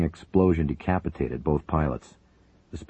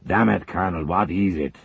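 angry, raised snap at the aide; yelled; 3 semitones higher, 4 dB louder than usual. Acted. Zelinkov yelling at the colonel who barged in, angry. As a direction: yell at the interruption. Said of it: "Zelinkov yelled".

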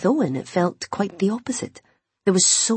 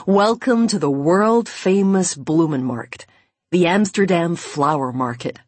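slow, proud presentation; showman's welcome; 4 dB louder than usual. A narrator's reading. Owen presents the flower market to Imogen, slow and grand. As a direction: announce it grandly, drawing out the name.

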